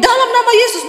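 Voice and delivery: high, commanding cry of Jesus' name; forceful rebuke prayer. Retold or imitated. Preacher re-enacting a deliverance prayer, commanding. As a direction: rebuke the spirit even harder.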